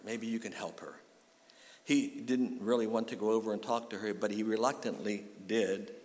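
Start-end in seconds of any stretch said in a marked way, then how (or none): 0.0-1.0 whisper. Retold or imitated. Receptionist's quiet suggestion.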